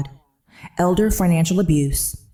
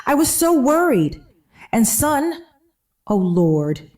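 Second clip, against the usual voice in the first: high, pleading mock panic; faked distress, voice pitched up; 7 semitones higher than usual. A narrator's reading. Mother fakes panic to her son on the phone, high and pleading. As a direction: sell the fake worry, climbing high.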